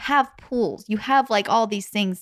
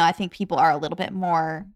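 glitchy robotic mic distortion; words breaking up like a robot; 4 semitones lower than usual. Real, not acted. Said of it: "what's happening to my microphone?".

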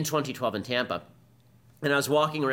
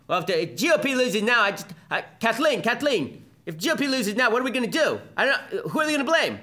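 much higher, louder and frantic, mocking a panicked pundit; Chris Matthews impression; 9 semitones higher, 4 dB louder than usual. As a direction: squeal it like a pundit losing his mind. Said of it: "here is Chris Matthews saying".

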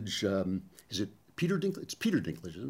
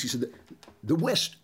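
ordinary talk, nothing marked

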